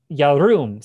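"Yarum" said loudly, stressed on -rum; "Yarum" loud and firm; Hebrew word. Shown as a demonstration. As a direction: call out "Yarum" in Hebrew with weight. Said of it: "quite emphatic".

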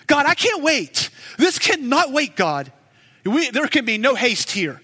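high, pressing cry to God; urgent plea. Pretend. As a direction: demand action now, pushing hard. Voicing impatient plea for rescue.

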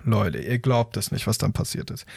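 dropping to a near whisper; hushed suspense. Acted. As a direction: lean in and whisper the teaser. Suspense build-up to listeners.

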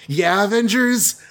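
high, slow mock-expectant reply; exaggerated prompting. Daredevil prompts the stalling Avengers, exaggerated high prompting. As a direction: stretch it up high, urging them on.

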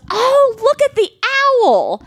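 husband's loud, high-pitched excited outburst; loud excited exclamation. Retold or imitated. Mom mimics husband at the petting zoo, loud voice. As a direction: imitate an over-excited dad calling out. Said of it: "using his loud voice".

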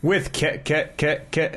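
stuttering like a skipping CD; stuck repeating like a scratched disc. Pretend. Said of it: "C D skipping now".

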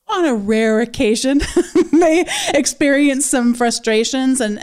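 laughing through the words. Real, not acted. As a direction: chuckle as you say it. Laughs while speaking.

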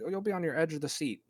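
lightly hyped trailer-blurb voice; lightly mock critic's pull quote. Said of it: "you hear so many times in pull quotes".

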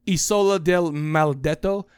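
slow, badly faked Italian accent; terrible Italian accent. Host reading out a giallo title, terrible Italian accent. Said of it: "my terrible Italian accent".

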